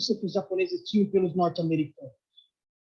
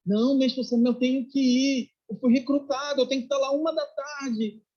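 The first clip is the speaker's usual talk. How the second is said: put-on higher-pitched pleading young recruit; mock-urgent objection, pitched up; urgent protest; 5 semitones higher than usual. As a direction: retell an insistent protest to a master. Young recruit pleading with his master.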